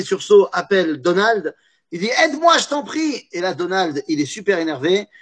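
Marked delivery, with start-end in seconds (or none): 2.2-3.3 pleading. Retold or imitated. Bibi begging Donald.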